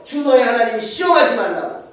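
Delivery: 힘 있게 꾸짖기; rebuking. Retold or imitated. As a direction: forbid it outright. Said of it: "또 대적합니다".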